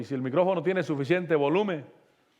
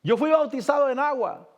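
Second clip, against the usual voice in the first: higher-pitched pleading call, only mildly raised; retold cry out; 5 semitones higher than usual. Preacher retells a dying man crying to the Lord, mild retold shout. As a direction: imitate a man calling up to the Lord, without full shouting. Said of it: "le gritaba al Señor y le decía".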